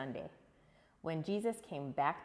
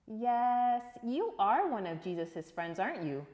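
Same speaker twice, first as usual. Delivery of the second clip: louder, insistent accusation; accusing bystander; 5 semitones higher, 6 dB louder than usual. Acted. Man confronting Peter, loud and insistent. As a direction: press him, sure of it. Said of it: "he said".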